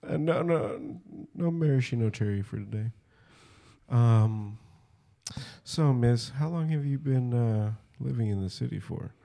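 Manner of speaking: soft-spoken lounge charmer; mock suave gentleman. Setting the mood with a lady over drinks, mock-suave. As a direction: play the smooth date, easy and quiet. Playing suave man on a date.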